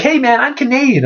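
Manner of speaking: high-pitched mock protest; imitating a pop singer. Singer up in a photographer's face, mock protest. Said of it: "And he's like".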